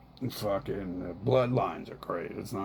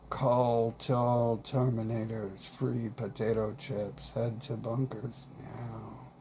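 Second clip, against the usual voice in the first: slow announcement; slower than usual. Pretend. Mock broadcast to Terminators.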